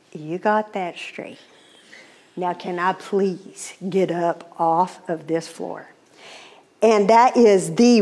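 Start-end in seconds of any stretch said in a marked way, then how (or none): 0.1-5.9 soft, slow acted-out humble reply; meek surrender. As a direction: plead quietly and slowly, playing chastened.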